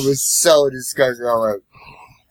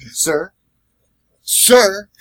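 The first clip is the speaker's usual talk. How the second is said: calling out; 9 semitones higher, 5 dB louder than usual. Retold or imitated. Calling the passed-out drunk.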